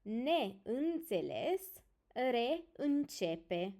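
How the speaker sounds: "neînțeles, reîncepe" slowly, prefix set apart from the î; example-word pronunciation. Shown as a demonstration. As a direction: model "neînțeles, reîncepe" piece by piece. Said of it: "For example".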